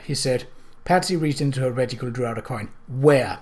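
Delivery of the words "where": demanding. Acted. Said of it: "she demanded".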